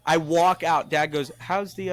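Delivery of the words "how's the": put-on higher-pitched Indian-accented dad; light mock Indian accent; imitated Indian accent. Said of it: "he's a little Indian man".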